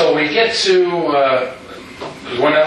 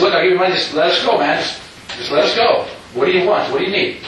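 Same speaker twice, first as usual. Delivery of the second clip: higher, urgent begging; retold pleading; 4 semitones higher than usual. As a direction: plead with the gunman to let them go. Pleading with armed robber.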